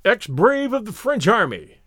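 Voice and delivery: put-on high, excited drunken call; mad exhilaration. Drunk narrator calling to the old soldier, wildly exhilarated. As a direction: call out giddy with wine. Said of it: "in a mad state of exhilaration".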